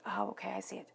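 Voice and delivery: hushed "Oh, okay, I see it"; soft whispered dawning; whispered realization. Retold or imitated. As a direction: whisper it as the penny drops. Voicing the listener's realization.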